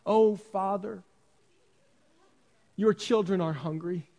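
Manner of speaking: a hint of a child begging in stilted formal words; lightly hammed-up plea for ice cream; mock formal child plea. Preacher imitating his kids asking for ice cream, mock formal. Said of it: "My kids don't come up to me".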